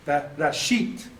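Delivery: Rashit drawn out slowly, syllable first then whole word; slow sounded-out Rashit. Shown as a demonstration. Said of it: "That's how I do it".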